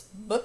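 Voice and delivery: "b" as its short sound, "buh"; isolated b sound. Shown as a demonstration. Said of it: "So we hear that oi".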